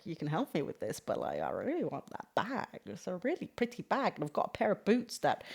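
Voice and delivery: a hint of a trendy Gen Zer gushing about her outfit. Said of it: "I don't know why I'm talking like this... talk like a Gen Zer".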